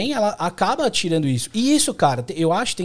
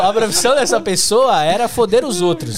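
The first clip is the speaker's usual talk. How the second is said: laughing; 5 semitones higher, 4 dB louder than usual. Real, not acted. Laughing while ranting about the meter maid.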